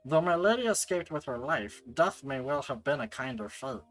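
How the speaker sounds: put-on old-servant gremlin telling a grim tale. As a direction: narrate as a mournful little gremlin. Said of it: "the gremlin voice".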